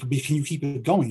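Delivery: ordinary delivery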